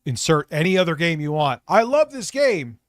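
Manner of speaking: hammed-up impression of Phil begging for support; mocking Phil. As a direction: parody his whiny bargaining. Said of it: "He always".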